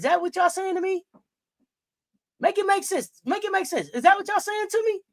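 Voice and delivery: high, disbelieving rant; incredulous. Real, not acted. Streamer mocking chat's take, high incredulous.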